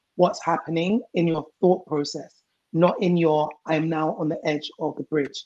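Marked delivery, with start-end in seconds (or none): none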